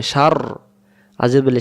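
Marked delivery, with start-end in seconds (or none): 0.0-0.4 সার with a rounded mouth. Shown as a demonstration. Teacher showing learners how the mouth rounds, সার said rounded. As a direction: round the lips on সার, holding the final r. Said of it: "মনটা গোল হবে".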